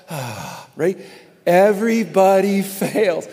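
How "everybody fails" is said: Everybody fails broken by a laugh; laughing through it. Shown as a demonstration. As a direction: chuckle between Everybody and fails. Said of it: "say it again and do this".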